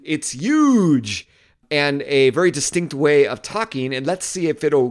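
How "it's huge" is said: quick mock Trump catchphrase; Trump impression. Vlogger quoting Trump's catchphrase, lightly imitated. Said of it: "ways of saying".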